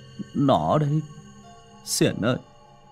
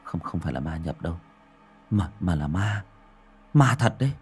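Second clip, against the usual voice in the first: trembling stammer; 4 semitones lower than usual. Acted. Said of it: "Tấn run rẩy lắp bắp".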